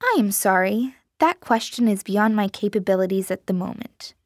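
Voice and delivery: cold, even robot voice; robotic voice. Acted. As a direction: read it flat like a machine. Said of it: "cold and twanged with a robotic timbre".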